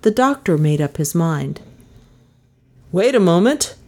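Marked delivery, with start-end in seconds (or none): 2.9-3.7 higher-pitched call to those outside. A narrator's reading. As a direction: call through the door to hold on. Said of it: "he called".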